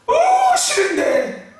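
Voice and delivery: high, slow whiny no; mock refusal. Pastor voicing a reluctant member refusing the cross, high whine.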